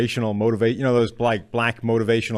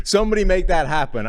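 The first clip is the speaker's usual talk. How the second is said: laughing; 7 semitones higher, 3 dB louder than usual. Real, not acted. Laughing at the joke graphic.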